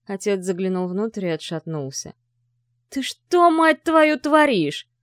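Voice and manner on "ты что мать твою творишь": shouted high and loud in rage; the father explodes at his son; furious. A narrator's reading. Father, seeing the girl in the trunk, shouts at his son in fury. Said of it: "в бешенстве".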